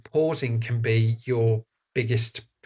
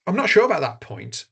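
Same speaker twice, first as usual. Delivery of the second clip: polite interviewee answer; 6 semitones higher than usual. Shown as a demonstration. Interviewee demonstrating a bridge, politely deflecting. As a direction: open the bridge with a polite doubt. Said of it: "going back to our key messages".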